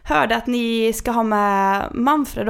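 imitated caller. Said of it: "så säger han då så här".

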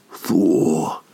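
"Thor" dropped low and drawn out; mock low swoon. Joking about the god's name, a low swooning Thor. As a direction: let "Thor" sink low like a lustful sigh. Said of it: "That's like when you".

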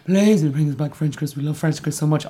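a hint of a pleading kid; lightly voiced whining child; whiny child begging. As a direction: beg like a child for treats. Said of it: "I would like".

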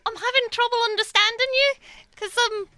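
put-on muddled mix of English regional accents; made-up northern-south accent. American stranger to the crowd, made-up mixed English accent. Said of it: "I'm an American doing a".

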